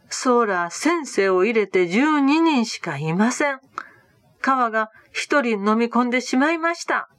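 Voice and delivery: understated cry that one is missing; mild alarmed cry. Acted. Disciple crying out to the group, mildly alarmed. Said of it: "と叫びました".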